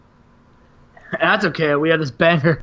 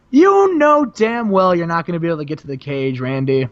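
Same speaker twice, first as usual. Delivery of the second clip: gloating Sting; 3 semitones higher than usual. Retold or imitated. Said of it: "Sting's like".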